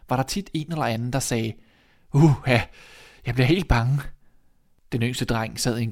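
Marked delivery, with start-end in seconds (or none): 2.1-4.0 loud shuddering exclamation; acted fright. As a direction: blurt it out, scared by the story. Story folk shuddering at tales. (forskrækket udbrud)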